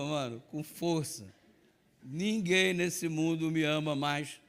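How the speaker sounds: usual speaking voice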